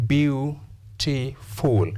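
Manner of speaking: beautiful drawn out in slow, separate syllables. Shown as a demonstration. Teacher giving an example of syllables, beautiful said slowly in parts. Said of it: "How many syllables?".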